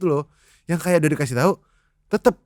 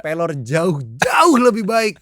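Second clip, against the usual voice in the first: put-on loud, drawn-out Ambonese accent; 4 dB louder, slower than usual. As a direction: put on an Ambonese lilt, stretching it out. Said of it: "Pakai logat Ambon".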